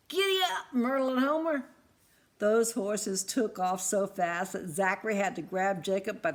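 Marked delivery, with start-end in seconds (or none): 0.1-1.6 much higher, louder giddy up; eager command. Acted. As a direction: urge the horses on, thrilled. Jacob commands horses.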